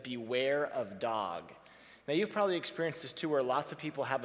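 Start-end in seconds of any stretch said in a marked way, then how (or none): 0.0-1.5 slow sign reading. Shown as a demonstration. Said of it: "a sign on the fence that said".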